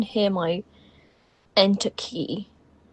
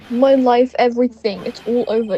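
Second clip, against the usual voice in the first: mock desperate yell, fading away; acted scream; 3 semitones higher, 7 dB louder than usual. Despairing client yelling across the lobby, half-screamed and fading. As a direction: cry out in despair, then sink back to normal. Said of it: "Is that your client screaming over there".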